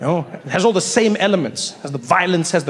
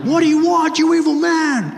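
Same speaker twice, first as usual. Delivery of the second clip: put-on much higher, thin young hero voice; squeaky Luke; 11 semitones higher than usual. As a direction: pipe it up, scared and whiny. Luke answering Darth, acted scene.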